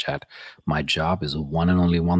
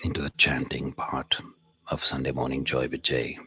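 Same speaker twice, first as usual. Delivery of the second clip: guided breathing meditation; 5 dB louder than usual. Real, not acted. Begins guiding breathing practice.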